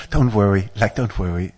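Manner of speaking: low, soft reassurance; laden with love. Acted. The Lord answering Brahma's prayer, loving low reassurance. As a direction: reassure lovingly, letting the voice sink. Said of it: "what's a glance laden with love".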